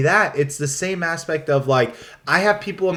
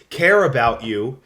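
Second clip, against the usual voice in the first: sarcastic air quotes; 4 semitones lower, slower than usual. Real, not acted. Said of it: "air quotes".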